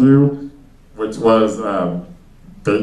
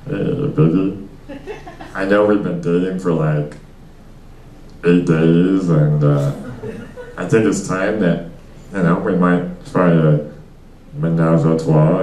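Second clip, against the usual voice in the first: smooth talker; 3 semitones lower than usual. Retold or imitated. Smooth line to girlfriend.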